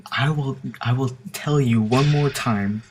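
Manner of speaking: slow, measured warning, mildly angry; retold threat from an angry mother; imitated growing anger. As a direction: imitate a woman losing patience. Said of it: "she's getting angrier by the second now".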